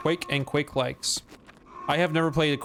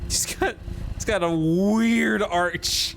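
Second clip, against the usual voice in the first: laughing; 6 semitones higher, slower than usual. Real, not acted. Laughing at the model.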